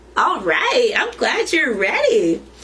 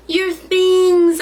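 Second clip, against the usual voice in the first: urgent reminder; 8 semitones higher, 5 dB louder than usual. A narrator's reading. Child reminding grandma.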